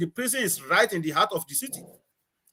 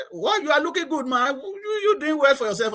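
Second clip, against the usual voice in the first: raised, excited voice of impressed friends; admiring greeting; 8 semitones higher than usual. Retold or imitated. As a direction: call it out like you're impressed. Colleagues greeting him admiringly.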